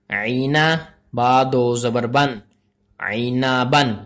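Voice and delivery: measured, syllable-by-syllable recitation; spelling-drill recitation. Shown as a demonstration. Teacher spells out Arabic letters for learners, measured recitation. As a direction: recite letter by letter, holding the final sounds.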